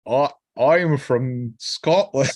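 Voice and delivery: slow, half-hearted Scottish accent; Scottish accent attempt. Shown as a demonstration. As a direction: try a Scottish accent, slowly. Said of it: "I can't do accents at all".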